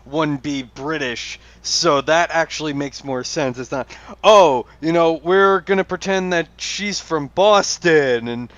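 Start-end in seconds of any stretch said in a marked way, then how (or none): 4.2-8.5 mocking voice. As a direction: scoff at the idea. Mocking the filmmakers' reasoning.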